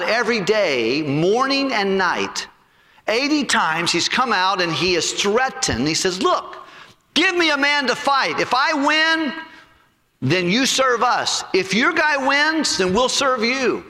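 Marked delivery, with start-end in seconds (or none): 6.2-13.8 giant's taunt. Acted. Giant taunting the Israelite army.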